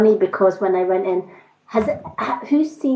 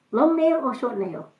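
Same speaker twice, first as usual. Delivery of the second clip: higher mock Chinese accent, held-back laugh; light Chinese accent impression, a little softer; 5 semitones higher, 3 dB quieter than usual. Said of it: "lovely little Chinese woman".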